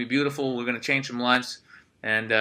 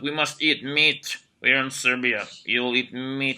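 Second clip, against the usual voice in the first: mock Eastern European accent; slower than usual. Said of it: "I'm like".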